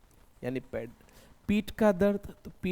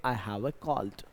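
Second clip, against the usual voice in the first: slow, careful demo of a sentence; slow model sentence; 4 semitones lower, 4 dB quieter, much slower than usual. Shown as a demonstration. Teacher modelling a sentence for students, slowly. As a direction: spell it out slowly for the class. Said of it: "तो आप बोलेंगे".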